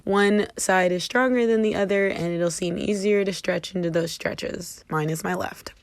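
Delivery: panting after running upstairs; winded, catching breath between phrases. Real, not acted. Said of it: "I do apologize for being out of breath right now".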